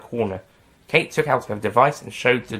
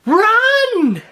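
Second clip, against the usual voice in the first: high, loud shout; yell; 7 dB louder than usual. Acted. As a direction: warn them, yell it. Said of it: "yelled Kate".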